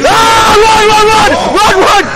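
high frantic cry to run; panicked yell. Real, not acted. Player fleeing a monster with friends, panicked shout. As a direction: scream at your friends to flee.

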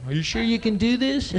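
high nervous question; mock nervous kid; scared kid. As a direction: voice jumps up in worry.

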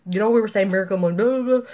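high, rushed and excited, tumbling out fast; freaking out. Retold or imitated. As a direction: blurt it out in a breathless rush. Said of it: "I'm freaking out going".

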